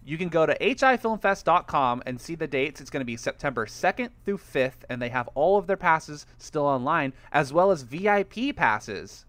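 lightly hammed ad read. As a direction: pitch the festival like a radio spot. Sponsor ad read.

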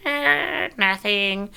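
put-on high, evasive kid voice; guilty kid. Kids caught in the back seat, fake innocent. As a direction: play innocent like a caught child. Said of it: "And we're like".

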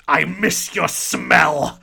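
put-on slow, loud goofy baby talk; dumb baby voice. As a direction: stretch it out like a dopey baby. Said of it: "doing the dumb baby voice".

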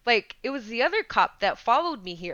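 retold challenge to a cop, pitch lifted; incredulous retort, breaking into a laugh; indignant back-talk. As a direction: argue back in disbelief.

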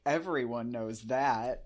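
slow, emphatic mock superiority; imitated know-it-all. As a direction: imitate someone stating the obvious. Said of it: "and then he's like".

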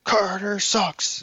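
high, drawn-out mock yell; slow, high-pitched pretend scream; mock screaming into a microphone. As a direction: stretch it out like a heckler on an amp. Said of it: "you're screaming into the microphone".

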